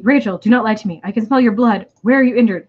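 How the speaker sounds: concerned alien. Acted. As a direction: press her as a worried alien.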